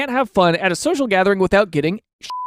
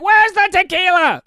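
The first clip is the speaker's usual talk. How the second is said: mock bozo; 10 semitones higher than usual. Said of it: "running around, be like".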